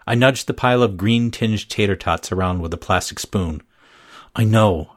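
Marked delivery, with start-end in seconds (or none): none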